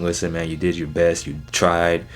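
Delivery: low, gently reassuring retold voice; consoling. Wrestler comforting his beaten friend after the match, low consoling tone. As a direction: lightly act out comforting a friend. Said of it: "consoling his boy".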